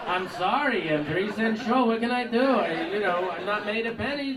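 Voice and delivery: put-on loud stereotyped Jewish shopkeeper accent; caricatured Jewish accent. Clerk refusing a kid three cents short, caricatured Jewish accent. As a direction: protest loudly in a hammed-up Jewish accent. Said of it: "A Jew".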